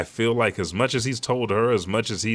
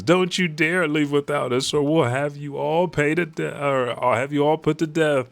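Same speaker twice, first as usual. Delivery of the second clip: spoiled noble threat; 7 semitones higher than usual. Retold or imitated. Celestial threatens soldiers.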